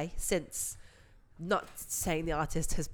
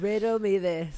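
loud, announcing the title; punchy game show title; show host voice; 7 dB louder than usual. Acted. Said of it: "I love the way you act like you haven't already been here".

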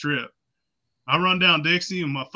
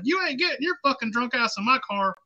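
higher mock cop scolding; cop refusing; 8 semitones higher than usual. Cop to the muddy drunk, higher mock scolding. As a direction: wave the drunk off, hammed-up. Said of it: "He's like".

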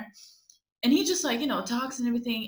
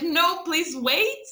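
slow, higher, hammed-up begging; mock pleading; 6 semitones higher, much slower than usual. Mocking what the guy expected her to say, mock pleading. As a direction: whine after him, mocking a desperate chaser. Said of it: "what he expecting me to, like, run after him".

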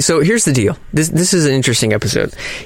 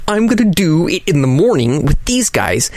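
higher, giddy inner voice; thrilled to be up early; excited; 6 semitones higher than usual. Retold or imitated. Retold own thrill.

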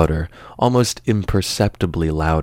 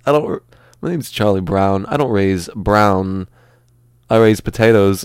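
Christopher Walken. Acted. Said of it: "movie that Christopher Walken was gonna star in".

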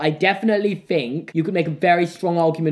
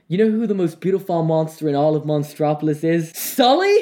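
movie quote impression. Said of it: "he goes like".

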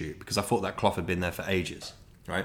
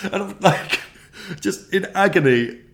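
strained; 6 semitones higher, 6 dB louder than usual. Retold or imitated. Retelling agony, strained voice.

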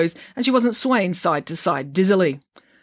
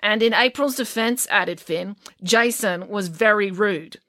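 put-on high boy voice; 5 semitones higher than usual. Finn voiced.

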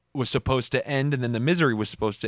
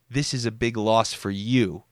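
pointed dig. Retold or imitated. Cousin hinting to absent relatives, pointed. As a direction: lean on each "you" to shift the loss. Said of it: "what he was trying to do was subtly tell us".

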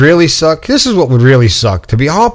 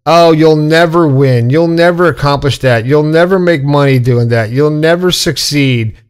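mock naysayer. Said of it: "Don't be the person that says".

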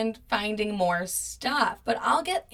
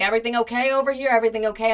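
quick, slightly raised check-in; 3 dB louder, much faster than usual. Retold or imitated. Cousin kept coming by to ask, retold as quick checking in. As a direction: imitate someone popping by, rapid-fire.

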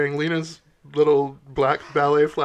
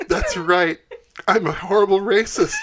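smug admission; 4 semitones higher, 5 dB louder than usual. Acted. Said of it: "she says".

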